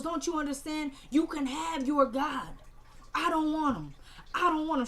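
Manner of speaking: imitating an upset daughter pushing away God; mock outburst. Candace's retold outburst.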